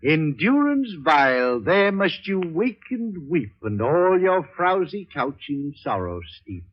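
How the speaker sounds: mock-solemn reading of a poem to a jailed friend; poetic quotation. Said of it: "to paraphrase Bobby Burns".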